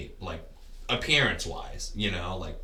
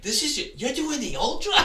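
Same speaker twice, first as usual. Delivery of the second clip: much higher, louder, laughing in disbelief; amazed disbelief; 7 dB louder than usual. Retold or imitated. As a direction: imitate a runner who can't believe it, laughing. Runner amazed he's doing ultra.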